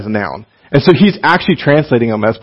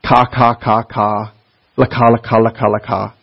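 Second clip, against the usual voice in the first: babbling; 3 semitones lower than usual. Shown as a demonstration. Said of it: "it's babbling".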